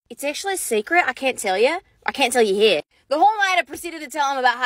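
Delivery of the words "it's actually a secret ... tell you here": put-on secretive mermaid girl. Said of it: "keep playing the role".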